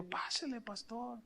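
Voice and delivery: very soft, quiet welcome; hushed "come in, pastor". Retold or imitated. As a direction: invite him in gently, nearly under your breath.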